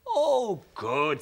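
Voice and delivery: high, loud and eager. A narrator's reading. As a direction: jump at the chance for a fight. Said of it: "said Boop".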